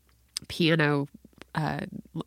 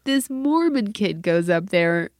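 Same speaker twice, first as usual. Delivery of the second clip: high, loud, slow build; scandalized kid's report; 8 semitones higher, 5 dB louder, slower than usual. Retold or imitated. Daughter telling mom about third group, high incredulous voice. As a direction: imitate a daughter drawing out the scandal.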